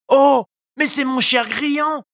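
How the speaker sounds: joyful exclamation. A narrator's reading. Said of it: "s'exclama Pinocchio".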